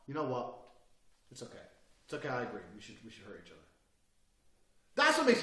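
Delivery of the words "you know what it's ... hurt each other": soft, mild agreement, fading away; acted niceness, quieter and lower; suddenly nice. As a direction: flip to eerily gentle calm. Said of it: "to nice inside of two seconds".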